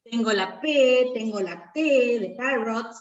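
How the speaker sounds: slow, careful "tengo la P, tengo la T de parrot" with each letter sound set apart; sounds spelled out. Shown as a demonstration. Teacher showing students the sounds in parrot, slow and careful. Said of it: "en parrot".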